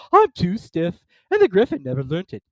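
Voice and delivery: high, loud weepy voice; weepy Mock Turtle. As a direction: wail like a sad creature.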